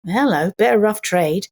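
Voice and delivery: a hint of an Edwardian lady eyeing rough trade; understated prim lady's aside. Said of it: "straight-laced Edwardian lady going".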